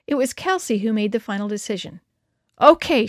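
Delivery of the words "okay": firm, loud, falling "Okay" that settles it; decide it with one word; decisive. A narrator's reading. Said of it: "she said".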